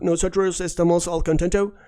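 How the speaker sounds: "Nosotros estamos al contento" with an English r and a reduced "estəmos"; Spanish said like an English speaker, as a joke; joke English accent. Shown as a demonstration. A teacher joking to students in a mock English accent. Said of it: "funny joke".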